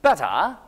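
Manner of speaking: "Better" with crisp t and no r, like "betta"; rising British "Better"; British silent R. Shown as a demonstration. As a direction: drop the r at the end of "Better". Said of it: "R 발음은 발음하지 않습니다".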